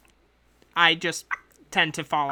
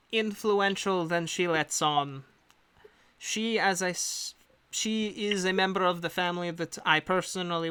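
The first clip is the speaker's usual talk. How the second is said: a lightly put-on accent for a composed agent; the employer briefing hired adventurers in her accent; hint of a foreign accent; accent NPC voice. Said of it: "she always has the accent".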